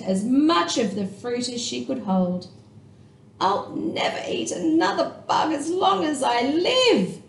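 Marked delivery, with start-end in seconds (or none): 3.4-7.2 higher, lightly voiced little bat; a happy promise with a full mouth; young bat stuffing herself, gleeful; young Stellaluna. A narrator's reading. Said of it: "said Stellaluna".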